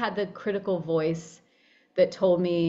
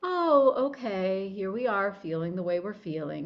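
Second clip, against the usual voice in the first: calm acceptance. Retold or imitated. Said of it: "Let's be like".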